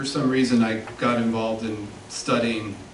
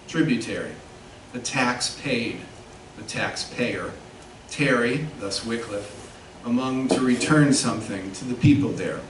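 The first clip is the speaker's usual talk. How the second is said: measured, emphatic literary reading in phrases; poetry reading; 4 dB louder than usual. Acted. Poet reads a meditation on the word Missouri, measured poetry reading. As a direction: read the poem deliberately, setting off key words. Reads own poem aloud.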